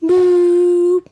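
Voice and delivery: high, loud PA announcement; intercom voice. Acted. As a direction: boom it over the intercom. CEO over office intercom.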